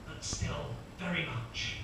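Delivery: slow, measured commentary with dramatic gaps; sports commentator. Acted. Commentator introducing the stair racer as he warms up, measured commentary. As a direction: introduce the athlete slowly, pausing between phrases. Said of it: "the first commentator will kick in".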